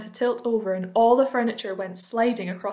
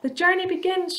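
high, excited announcement; triumphant shout; 9 semitones higher, 3 dB louder than usual. A narrator's reading. Centipede announcing the start to everyone, triumphant shout. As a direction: proclaim it high and proud. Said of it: "shouted the centipede".

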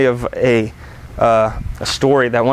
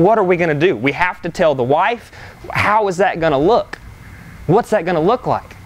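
higher-pitched, mildly alarmed questions; fretting aloud, pitched up; worried questioning; 5 semitones higher than usual. Retold or imitated. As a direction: voice the pastor's mounting worry. Pastor's anxious thoughts voiced in story.

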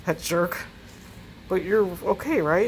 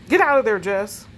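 urgent; 4 dB louder than usual. Acted. Truck returns, urging escape.

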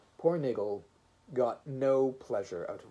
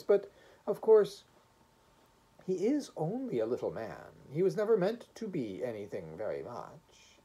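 gentle, hopeful voice; 5 semitones higher than usual. Acted. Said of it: "hopeful and sad".

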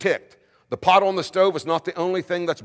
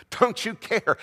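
laughing; 6 semitones higher, slower than usual. Real, not acted. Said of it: "How ironic is that".

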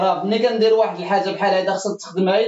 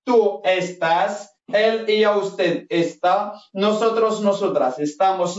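slow teacher model; much slower than usual. Shown as a demonstration. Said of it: "هنا غتقولوها بهاد الطريقة".

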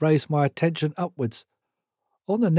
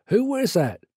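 called from indoors, pitched higher; booming call; 6 semitones higher than usual. A narrator's reading. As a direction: boom it out from another room. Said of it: "boomed a woman's voice".

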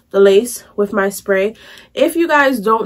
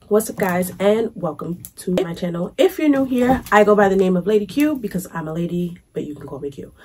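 raspy man voice from covid; hoarse, rough sick voice. Real, not acted. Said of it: "Excuse my voice".

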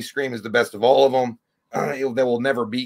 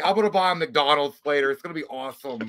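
higher, hyped fake-cheerful vlogger voice; mock prank YouTuber; 6 semitones higher, 4 dB louder than usual. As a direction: ham up a clueless prank influencer.

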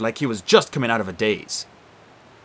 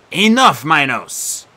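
commanding; 3 semitones higher, 6 dB louder, much slower than usual. Acted. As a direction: order the ghost to stop. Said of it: "Nico commanded".

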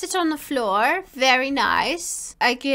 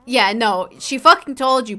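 ordinary talk

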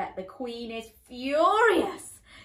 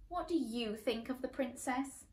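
queen whispering; 8 dB quieter than usual. Acted. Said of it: "The queen whispered to the governess".

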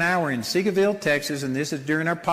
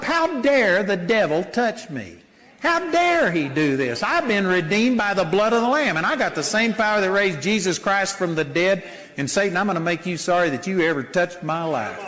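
defiant bold declaration; 2 semitones higher than usual. Pretend. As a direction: tell the devil off, growing bolder. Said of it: "you get that attitude".

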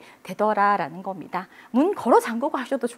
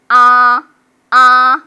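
high, loud, steady "아"; high level tone; 14 dB louder, much slower than usual. Shown as a demonstration. Teacher showing students the first tone, high and level. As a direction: hold "아" level at the top of the voice. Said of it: "가장 높은데".

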